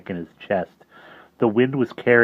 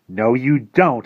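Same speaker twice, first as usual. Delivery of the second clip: determined thought; 4 semitones higher, 6 dB louder, slower than usual. Acted. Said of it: "he thought".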